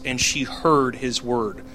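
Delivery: HEARD drawn out in a slow phrase; slow, deliberate weight on HEARD; emphasis on HEARD. Shown as a demonstration. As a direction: lean slowly on the word HEARD. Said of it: "I like the emphasis".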